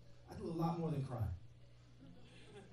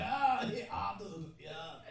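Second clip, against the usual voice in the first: mocking laughter; slower than usual. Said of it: "They're like".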